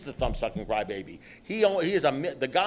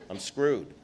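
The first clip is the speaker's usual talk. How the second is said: laughing; 2 semitones lower, 6 dB quieter than usual. Real, not acted. Punchline about being sober.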